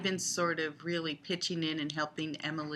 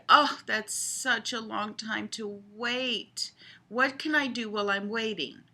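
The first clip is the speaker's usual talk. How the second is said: mock lament; 5 semitones higher, 4 dB louder than usual. Scripted lament in game.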